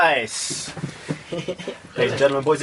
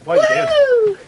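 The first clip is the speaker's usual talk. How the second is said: sudden, much higher, louder cry of disbelief; surprised; 4 dB louder than usual. Real, not acted. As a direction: caught off guard, what on earth.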